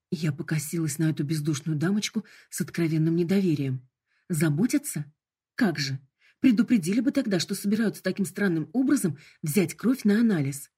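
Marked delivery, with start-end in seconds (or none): 4.3-10.7 sarcastic, rising to indignation; scoff, then protest sharply; indignant retort. Acted.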